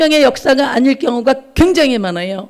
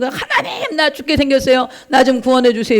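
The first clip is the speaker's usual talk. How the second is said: begging God. Acted. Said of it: "이랬어요".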